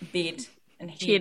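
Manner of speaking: "bid and heed" said slowly in a Kiwi accent, the vowels shifted the Kiwi way; mock Kiwi pronunciation of "bid and heed", drawn out. Shown as a demonstration. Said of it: "And then pronounce".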